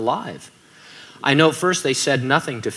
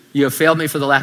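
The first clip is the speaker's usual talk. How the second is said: Darth Vader line; 4 dB louder, much faster than usual. Retold or imitated. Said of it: "I was gonna do a Darth Vader accent".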